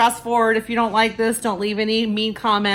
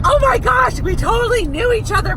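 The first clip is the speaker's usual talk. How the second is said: much higher, louder mock squeal of recognition; excited gush; 13 semitones higher, 4 dB louder than usual. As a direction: gush like you just spotted an old friend. Retelling meeting fellow ward members.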